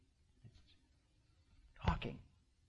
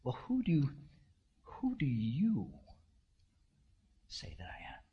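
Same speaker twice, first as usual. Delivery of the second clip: cozying up; 4 dB quieter than usual. Acted. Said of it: "cozies up and says".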